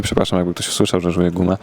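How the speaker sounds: talking while chewing gum; words round a wad of gum. Real, not acted. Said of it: "ja żuję gumę".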